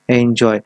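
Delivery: एंजॉय with the weight on एन; stress on first syllable. Shown as a demonstration. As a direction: lean on एन in एंजॉय, then a light जॉय. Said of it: "एन, एन पर ज़्यादा, अ, stress दे रहे।".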